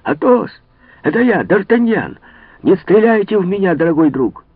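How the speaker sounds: very high, loud shout. A narrator's reading. D'Artagnan shouts up to Athos from the ladder. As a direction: call up to the house at full voice. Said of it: "закричал".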